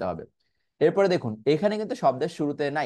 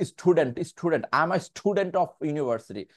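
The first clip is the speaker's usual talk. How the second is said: স্টুডেন্ট said slowly with a strong puffed ট; slow, pompous English with an exaggerated puffed t; showing off; slower than usual. Shown as a demonstration. Teacher mocking the wrong, show-off student pronunciation. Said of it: "এইভাবে ভাব নিয়ে বলবেন না".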